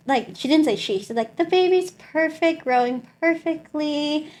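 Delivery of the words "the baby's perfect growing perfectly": high, measured good-news voice; imitating upbeat doctor. Doctor telling patient the baby is healthy, high upbeat. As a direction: lightly put on a pleased doctor, pitched up.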